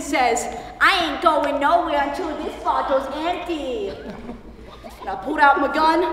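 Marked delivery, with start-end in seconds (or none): 0.8-3.9 put-on drunk man. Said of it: "three sheets of the wind".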